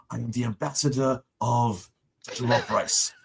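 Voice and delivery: put-on lightly pompous Nigerian-accented title speech; imitating a child's self-important Nigerian ambassador; mock Nigerian dignitary. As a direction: introduce yourself grandly in a Nigerian accent. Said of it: "he's, like, doing the whole bit".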